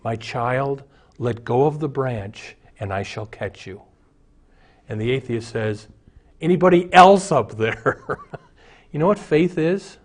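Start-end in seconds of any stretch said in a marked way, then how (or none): 0.0-3.8 voice from heaven. Acted. Voice from heaven answering. 6.4-8.2 higher, louder, laughing through the punchline; skeptical atheist. Acted. Atheist on the cliff asking heaven for someone else, laughing.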